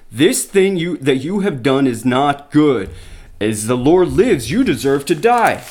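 reading the Bible to the congregation; scripture reading. Acted. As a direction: read the passage out with weight.

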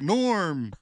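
long, rising-pitched sitcom catchphrase; greeting the regular. Retold or imitated. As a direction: call out like regulars hailing a friend. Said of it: "everyone's like".

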